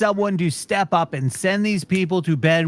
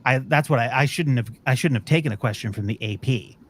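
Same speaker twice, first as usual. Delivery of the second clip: mocking flustered secretary; 7 semitones lower than usual. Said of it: "And then she's like".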